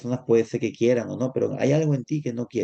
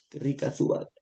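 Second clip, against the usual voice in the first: antojo susurrado; 4 dB quieter than usual. Acted. Zorra mira las uvas.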